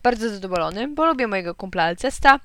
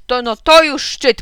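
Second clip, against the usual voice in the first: slow, loud, high exasperation; outraged; 4 semitones higher, 10 dB louder, slower than usual. A narrator's reading. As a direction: draw it out in indignation. Father outraged in quarrel. (głośne, przeciągłe oburzenie)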